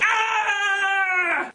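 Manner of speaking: long, held "ah" scream; mock scream. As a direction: yell out in put-on alarm. Acted alarm at superhero killer.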